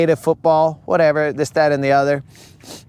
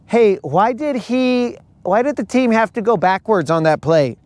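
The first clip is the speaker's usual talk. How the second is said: clueless fan voice; 5 semitones higher than usual. Retold or imitated. Mocking a Swiftie asking about football, higher naive voice. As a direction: ask like a confused newcomer.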